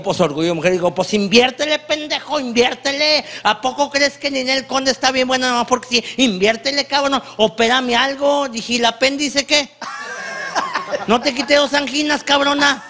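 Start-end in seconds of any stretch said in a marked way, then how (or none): 0.9-8.5 imitating a worked-up wife, high-pitched; mock indignant nagging in a raised pitch; high, insistent quarrelling as a fed-up wife; angry wife. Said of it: "se encabronó conmigo". 8.7-12.8 high-pitched mock outrage; acted marital squabble, pitched up; indignant retort. Husband argues back at angry wife.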